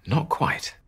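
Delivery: cheerful turnaround; bright twist. A narrator's reading. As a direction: pop it out like a happy surprise. Twist after cliffhanger.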